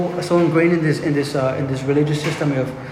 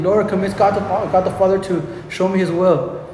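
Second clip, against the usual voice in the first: mock pleading prayer; 3 semitones higher than usual. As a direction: play a needy believer pestering the Lord. Mock pleading believer begging Jesus.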